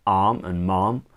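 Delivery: badly faked American accent; terrible American accent. Shown as a demonstration. British songwriting teacher testing a rhyme for viewers, in a poor American accent. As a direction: have a clumsy go at an American accent. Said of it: "that's my terrible American accent".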